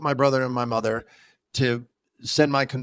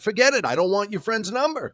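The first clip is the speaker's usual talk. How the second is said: retold annoyed refusal; 6 semitones higher than usual. Telling a friend off over a kickback, mock irritated. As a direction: shut the kickback idea down.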